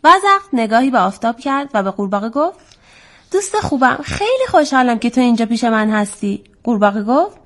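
measured, lilting storytime reading; story narration for children. A narrator's reading. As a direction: tell it to children with a rise and fall.

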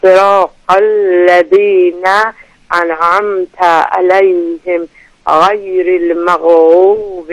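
slow, chanted tarteel recitation of the surahs; Quran recitation. Acted. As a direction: recite each verse measured, in the Quran style. Caller rereads the last verse. (تلاوت ترتیل قرآن)

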